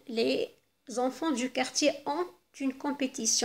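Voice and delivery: slow, clear reading of the example; slow model sentence. Shown as a demonstration. Teacher reading the sentence before replacing it, slowly. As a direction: lay out each word for pupils. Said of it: "لما نعوضها ب il".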